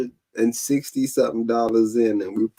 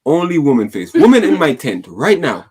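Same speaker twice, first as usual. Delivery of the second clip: put-on high, loud laughing West African accent; hammed-up Ghanaian prophet voice; 6 semitones higher, 5 dB louder than usual. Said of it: "your Ghanaian accent".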